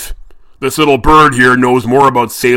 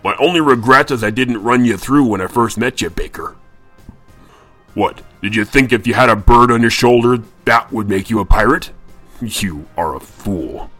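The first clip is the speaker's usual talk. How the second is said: louder, scornful captain; Redbeard's contempt; 6 dB louder than usual. A narrator's reading. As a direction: sneer and threaten him. Captain menaces Bluebeard.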